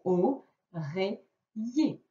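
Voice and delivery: "Oreiller" drawn out very slowly, syllable by syllable; slowly spelled-out word. Shown as a demonstration. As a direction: stretch "Oreiller" so every sound is heard. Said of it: "il y a les deux L E". (« Oreiller » prononcé très lentement, syllabe par syllabe)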